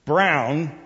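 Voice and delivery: loud, high call with each name drawn out; exasperated parent's full-name holler; emphatic parent. Acted. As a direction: summon the kid by full name. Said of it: "Finally, the voice gets".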